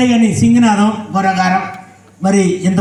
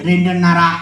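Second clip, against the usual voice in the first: matter-of-fact puppet answer; puppet character; 3 semitones lower than usual. Acted. Puppet telling how many children it has, puppet voice. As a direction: answer in the dummy's voice, unexcited.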